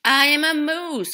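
mild cry. Acted. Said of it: "cried Morris".

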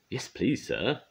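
eager, high-pitched reply; excited. A narrator's reading. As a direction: accept eagerly with a lifted voice. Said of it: "Duck replied excitedly".

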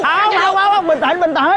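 high, hurried pleading; panicked. Acted. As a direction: beg them to calm down. Begging them not to draw knives.

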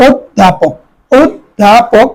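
অধ্যাপক said as oddhapok, starting with o; pronunciation demo. Shown as a demonstration. Teacher models অধ্যাপক for HSC students, clear demo. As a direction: give অধ্যাপক as oddhapok, doubled dh. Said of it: "ওকার হয়ে গেছে".

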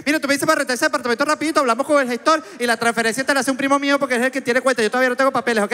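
high-pitched, rapid-fire Venezuelan patter; very fast talking. Shown as a demonstration. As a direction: rattle it off, running the words together. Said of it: "porque hablo muy rápido".

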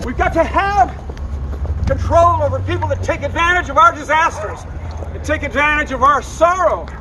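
high, heated rant; furious, pleading protest; angry rant. Real, not acted. Protester ranting after arrest.

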